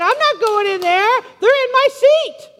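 high, loud mock indignation; all mad. Churchgoer refusing to go in over a seat, mad. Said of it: "be all mad and saying".

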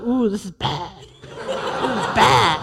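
low, slow, hushed uh-oh with a laugh; playful dread after a slammed door; mock worried. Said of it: "I was like".

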